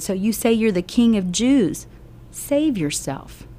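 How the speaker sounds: a soldier jeering, drawn out on save; mocking taunt. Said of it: "they began to mock him".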